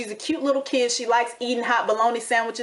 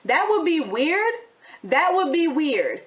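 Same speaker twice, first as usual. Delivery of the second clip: incredulous; 5 semitones higher, slower than usual. Real, not acted. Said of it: "incredulous repeat of his words".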